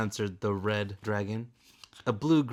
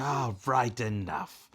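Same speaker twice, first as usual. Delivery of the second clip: a light snap; curt, cutting him off; snapped; 2 semitones higher than usual. Acted. Kestrel shutting down Webb, a light snap. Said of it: "Kestrel snapped".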